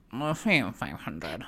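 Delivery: very slow, barely interested drawl; Meredith Marks. Acted. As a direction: speak as if you can hardly be bothered. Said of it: "barely interested in even speaking".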